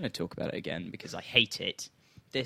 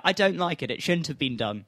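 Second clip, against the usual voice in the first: lightly voiced old granny, louder; a hint of a quavering old granny; frail great grandma; 3 semitones higher, 8 dB louder than usual. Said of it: "That was a really old granny voice you just did there".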